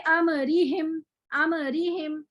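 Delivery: अमरीहिम with a closed, still मीम; correct recitation. Shown as a demonstration. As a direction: say अमरीहिम the right way, no movement on the मीम. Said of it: "तो पढ़ेंगे".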